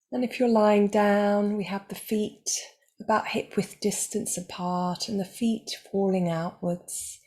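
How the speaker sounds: calm, measured meditation guide with long pauses; guided meditation. Real, not acted. Meditation teacher guiding listeners toward self-acceptance, calm and unhurried. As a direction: guide listeners gently, leaving space between phrases.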